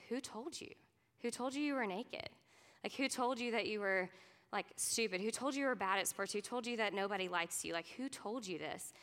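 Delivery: put-on gently ask, like a loving father finding his child; tender voice of God. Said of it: "this tender voice of God".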